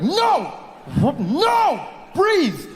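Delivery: very high, shouted refusal; frantic command. Retold or imitated. Comic ordering his body to breathe, frantic mock shouting. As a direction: shout down your own rising nausea.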